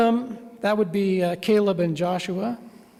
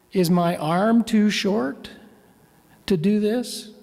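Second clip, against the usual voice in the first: pointed rhetorical question with long pauses, mildly sarcastic; a touch of irony, measured and deliberate; ironic God. Retold or imitated. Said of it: "you can almost hear the irony or sarcasm in God's voice".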